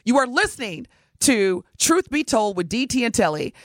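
upbeat radio station ID read. Acted. Host reading the station ID before the break, upbeat. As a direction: announce the station and show name brightly.

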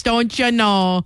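imitated Minnesota mom, drawn out slowly; slow mock-Minnesotan lilt; Minnesota mom accent. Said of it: "Minnesota mom accent comes out".

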